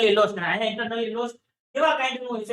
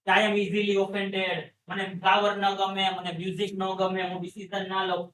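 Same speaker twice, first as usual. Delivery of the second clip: lightly voiced patient listing complaints, lower; low-key complaining patient; sensitive patient; 3 semitones lower, faster than usual. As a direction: recite the dislikes in a lowered, subdued voice. Voicing the sensitive, easily offended patient.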